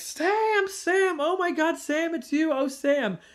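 mock very high, loud, gushing squealing shriek. Retelling a lady who busts through a cafe door, imitating her yelling. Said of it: "starts yelling like".

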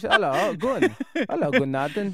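Norwegian-accented, loud. Asked by the other speaker to try one: norwegian accent. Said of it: "how's your Norwegian accent?".

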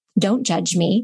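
mock utterly earnest, dead-serious, solemn little voice. Retelling a little girl's reply to a handwriting correction: imitating her dead-serious tone. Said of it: "looks up at me with all seriousness".

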